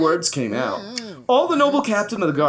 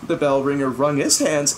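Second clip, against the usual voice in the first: ordinary delivery, nothing marked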